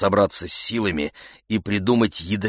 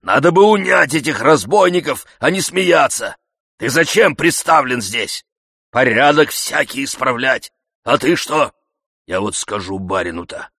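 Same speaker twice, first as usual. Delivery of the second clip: loud, high reproach; indignant old servant; 6 semitones higher, 6 dB louder than usual. Acted. Zakhar scolding the yardman, loud and aggrieved.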